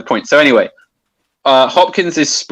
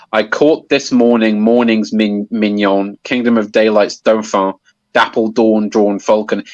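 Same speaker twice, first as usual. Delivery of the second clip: measured recitation stressing the clustered words "dapple dawn, drawn falcon"; sprung rhythm. Shown as a demonstration. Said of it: "quite odd way that the, that the stresses appear".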